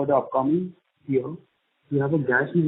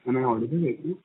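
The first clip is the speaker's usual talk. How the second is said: barely audible; 3 dB quieter than usual. Real, not acted. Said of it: "Sir, your audio is very low".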